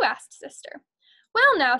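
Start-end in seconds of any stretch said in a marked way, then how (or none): 1.3-1.8 louder, higher farmer's drawn-out start; folksy farmer. Acted. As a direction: begin like a country farmer thinking it over. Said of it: "said Farmer Ben".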